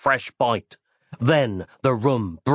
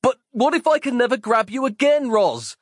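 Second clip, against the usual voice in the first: higher, plaintive mild cry; pleading Mike; 12 semitones higher than usual. Acted. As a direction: beg her like a lovesick fool. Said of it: "Mike cried out".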